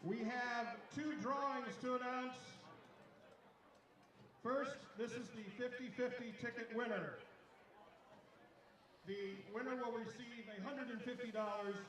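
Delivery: raffle caller. Real, not acted. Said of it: "PA announcer reads raffle winners".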